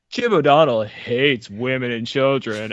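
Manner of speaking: slow, dramatic attack-ad voice; smear ad announcer. Pretend. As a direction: read it like a smear campaign ad. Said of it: "I could just picture the smear campaign".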